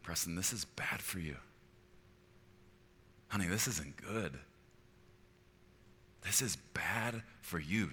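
soft, caring correction; gentle conviction. Acted. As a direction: warn softly, as one who loves them. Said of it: "The Holy Spirit will come and say".

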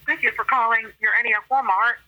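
a customer greeting heard down the line; phone line. Real, not acted. Store clerk answering the phone, tinny phone sound. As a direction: voice over a phone call.

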